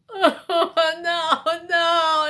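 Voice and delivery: loud, high, recoiling whine; mock disgust. Opening a nasty diet bar, high disgusted whine. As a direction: recoil from the taste.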